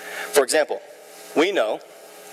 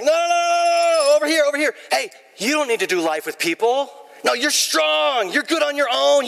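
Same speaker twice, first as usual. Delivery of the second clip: enemy voice; 10 semitones higher than usual. Retold or imitated. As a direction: pull them away like a sly devil. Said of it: "the enemy's like".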